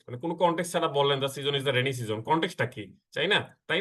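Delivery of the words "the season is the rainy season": slow example read. Shown as a demonstration. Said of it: "Without any context".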